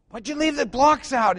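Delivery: husband griping over stepping on blocks; mock grumpy husband. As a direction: snap at the wife about the blocks. Husband scolding wife.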